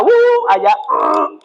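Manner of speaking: imitated revved-up whoops of energy; energetic whoop. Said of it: "toda la energía".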